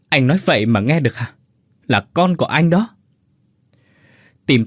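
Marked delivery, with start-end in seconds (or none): 0.1-2.9 mildly heated, rising higher at the end; acted quarrel. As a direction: confront him in a lightly acted argument. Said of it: "tiếng cãi nhau inh ỏi". (giọng cãi nhau, hơi gay gắt)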